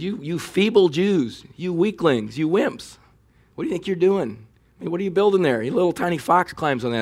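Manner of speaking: high, sneering schoolyard taunt; mocking taunt. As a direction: jeer at them like a bully. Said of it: "He says".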